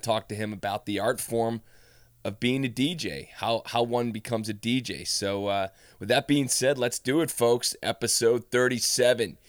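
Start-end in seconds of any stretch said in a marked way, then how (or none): 6.0-9.4 pumped-up show intro voice; hyped announcer. Real, not acted. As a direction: announce it like a hype man. Hyping up episode start.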